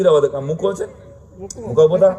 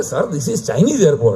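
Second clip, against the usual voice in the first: mock Chinese staff; much slower than usual.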